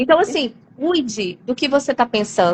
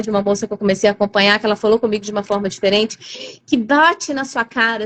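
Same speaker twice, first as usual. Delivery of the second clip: normal talking voice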